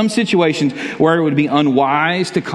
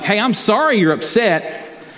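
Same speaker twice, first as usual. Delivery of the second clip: bad apology; 5 semitones higher than usual. Shown as a demonstration. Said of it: "that's not a good apology".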